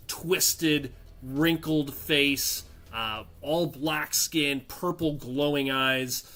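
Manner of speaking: slow, deliberate descriptive narration; game master's scene setting. A narrator's reading. Game master describes a hooded creature to players, slow suspenseful narration. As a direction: draw out each eerie detail, slowly.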